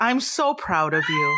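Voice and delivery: heartfelt praise from an idol; proud, tender. Acted. Idol to a crying fan, tender pride.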